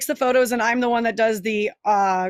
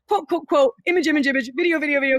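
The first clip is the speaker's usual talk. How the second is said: a bit higher, jumbled mock list; mocking chaotic posting; 4 semitones higher than usual. Mom showing her messy posting order, amused. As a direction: rattle it off as chaos. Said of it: "No, it's like".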